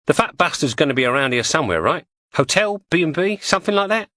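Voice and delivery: lightly voiced cockney woman; Julie's voice. Julie guesses where Danby stays.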